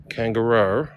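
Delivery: "Kangaroo" ending in an "er-oh" sound, rising; altered pronunciation. Shown as a demonstration. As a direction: try "Kangaroo" with an Aussie-style twisted last vowel. Trying Australian pronunciations of kangaroo.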